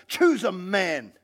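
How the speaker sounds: slow, drawn-out demand; measured, commanding call; Goliath's shouted challenge. Acted. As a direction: declaim it as a challenge to an army. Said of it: "He shouted".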